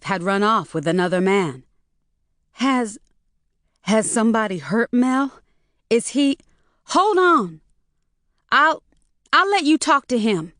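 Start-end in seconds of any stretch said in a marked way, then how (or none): 2.6-10.5 nervous stammer, breaking high. A narrator's reading. Daughter stammers to her mother, flustered and rising. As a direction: stumble over every start, rattled daughter. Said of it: "Loretta stammered".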